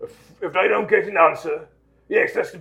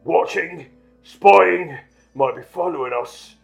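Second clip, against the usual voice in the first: paranoid, raised outburst; wild muttering; 6 semitones higher, 7 dB louder, slower than usual. Acted. Uncle fears being followed, wild agitated muttering. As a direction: fire off suspicions with raised pitch. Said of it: "muttered Uncle Vernon wildly".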